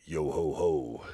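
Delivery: low, slow pirate chant. Pretend. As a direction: ham up a pirate. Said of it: "talking like a pirate".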